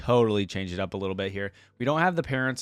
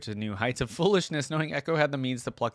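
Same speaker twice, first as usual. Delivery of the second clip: steady, even storytelling read; measured narrator voice reading the tale; story narration; faster than usual. Acted. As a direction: read the lore like an audiobook. Reads lore story aloud.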